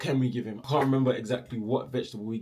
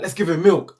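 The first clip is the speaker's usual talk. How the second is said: mum's eager idea; 7 semitones higher, 13 dB louder than usual. Retold or imitated.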